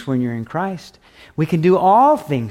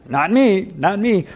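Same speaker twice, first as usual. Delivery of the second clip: put-on kids protesting; 5 semitones higher than usual. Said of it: "That's what my kids say".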